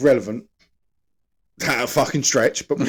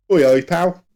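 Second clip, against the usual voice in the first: louder, slightly raised caricature of English speech; mock English accent; 4 semitones higher, 6 dB louder than usual. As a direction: call out as a stereotyped English bloke. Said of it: "that's English, isn't it?".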